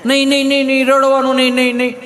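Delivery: lightly voiced fussing mummy; hushing mother. Mother hushing her crying child, mildly high soothing voice.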